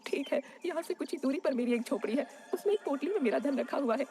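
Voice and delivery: high, plaintive granny voice; tearful dying old woman. Acted. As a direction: lament being alone at life's end.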